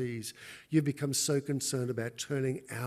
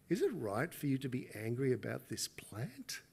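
soft whispered question; God whispering; 6 dB quieter than usual. Acted. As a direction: ask it in a hush. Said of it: "God says to Jonah".

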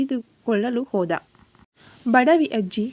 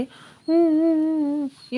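drawn-out, higher whimpering hum; mock wailing; 4 semitones higher, slower than usual. Chikka breaks down on the phone to Radha, mock wailing. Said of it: "ಜೋರಾಗಿ ಅಳಲು ಶುರು ಮಾಡಿದ".

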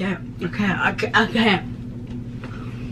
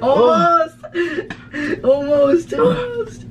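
excited; 4 semitones higher, much slower than usual. Real, not acted. Cheering a gulp.

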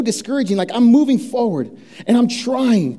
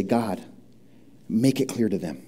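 quiet prayer; 10 semitones lower, 8 dB quieter than usual. Acted. Quiet prayer on one's knees.

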